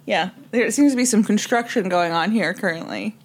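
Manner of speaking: slurred, mushy words; talking like marbles in the mouth. Real, not acted. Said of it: "Do you have marbles in your mouth?".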